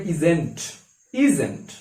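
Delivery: "isn't" as one joined word, IZ-ent; contracted isn't. Shown as a demonstration. Teacher modelling the pronunciation, "isn't" said as iz-ent. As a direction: pronounce "isn't" with is and n't run together. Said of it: "এর উচ্চারণ হবে".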